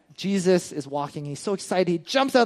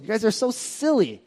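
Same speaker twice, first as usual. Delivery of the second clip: lightly teasing, a bit higher; mock disapproval, gentle; teasing scold; 4 semitones higher than usual. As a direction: playfully chide the disciples. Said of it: "That's a nice, nice word".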